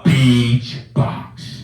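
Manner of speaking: tongue held with fingers; holding tongue. Shown as a demonstration. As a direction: say it while holding your tongue. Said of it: "hold your tongue and say".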